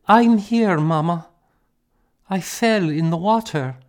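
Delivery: put-on a child comforting her mother; girl voice, tender. A narrator's reading. Girl telling her mother she is safe, tender.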